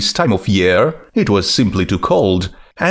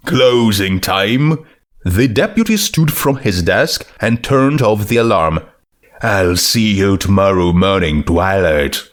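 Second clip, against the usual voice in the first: deputy voice; 2 semitones lower than usual. Acted.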